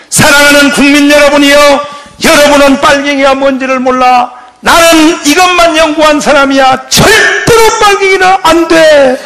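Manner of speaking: loud, rising orator's plea, slowing to hammer out the refusal; impassioned speech. Retold or imitated. Rhee addressing the nation, loud impassioned oratory. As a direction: rouse the crowd against the reds.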